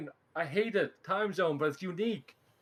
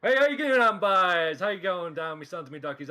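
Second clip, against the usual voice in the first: Newfoundland accent; 2 semitones higher, 7 dB louder than usual. Shown as a demonstration. Demoing his hometown speech, broad Newfoundland accent. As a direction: greet the boys in a thick Newfoundland accent. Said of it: "do it in the accent".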